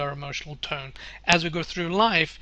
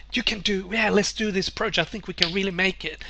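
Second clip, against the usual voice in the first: upbeat, eager push for the plan; a keen colleague rallying the meeting; enthusiastic; 4 semitones higher than usual. Retold or imitated. An enthusiastic colleague pitching in a meeting, eager and upbeat. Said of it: "an enthusiastic person going".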